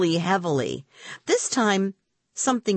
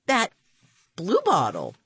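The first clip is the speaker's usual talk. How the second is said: gasped; 3 semitones higher than usual. A narrator's reading. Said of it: "I gasped".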